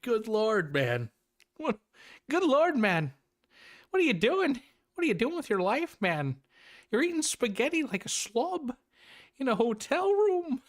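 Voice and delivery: very high-pitched parody of a scolding professor; hammed-up, strained high impression, scolding; Jordan Peterson. Host mock-scolds a movie character for his eating, Peterson parody. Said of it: "trying to do the best Jordan Peterson accent I can do".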